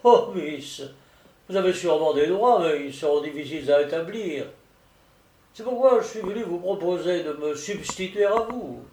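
lightly voiced solicitor, loud opening; persuasive solicitor. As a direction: make the pitch with a touch of insistence. (solliciteur persuasif, légèrement joué)

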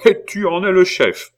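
very high, loud, astonished question; incredulous outcry. A narrator's reading. Abbé questions his pupil's command, loudly incredulous. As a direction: cry it out in sheer disbelief. Abbé astounded by Pitou's claim.

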